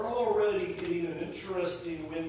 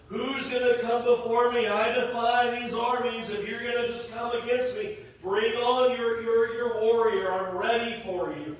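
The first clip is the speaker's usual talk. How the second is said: louder, hammed-up giant's challenge; loud taunt; 5 dB louder than usual. Preacher voicing Goliath taunting Israel's armies, loud mocking challenge. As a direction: call out the dare across the valley.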